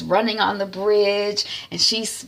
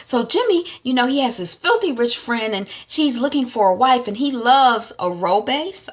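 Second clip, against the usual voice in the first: high chatty friend; 5 semitones higher than usual. Retold or imitated. Friend voiced matchmaking.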